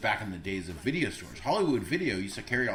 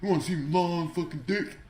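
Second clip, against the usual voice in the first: put-on black German accent; 6 semitones higher than usual. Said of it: "a black German accent ... like that dude".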